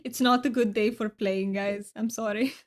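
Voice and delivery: overdone Romanian-accented English; almost fake-sounding Romanian accent, played for fun; Romanian accent attempt. Shown as a demonstration. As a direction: roll the R's too much in a mock Romanian accent. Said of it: "they don't roll their R's as much as I do".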